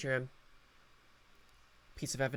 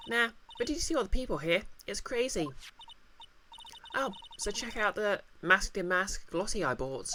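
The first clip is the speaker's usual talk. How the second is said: put-on lightly raised, quick, chirpy girl voice; excited young assistant, a touch higher; bubbly assistant girl; 4 semitones higher than usual.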